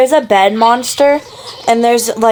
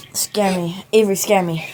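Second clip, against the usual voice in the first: speaking with hiccups; hiccupping between words; 2 semitones lower, 5 dB quieter than usual. Real, not acted. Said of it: "I have the hiccups".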